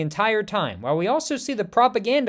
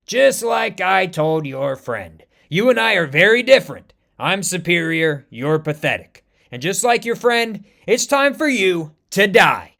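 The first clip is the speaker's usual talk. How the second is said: slow, louder cocky threat; gloating villain; 5 dB louder than usual. Acted. American Panther gloating over the beaten king. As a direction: savour his superiority.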